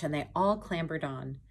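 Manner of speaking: lilting read-aloud rhyme; sing-song picture book reading; storybook narration. A narrator's reading. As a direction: read it like bedtime story to kids.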